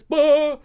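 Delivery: short, startled burst; mock jump-scare yelp. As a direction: imitate a movie jolt. Imitates a sudden scare in film.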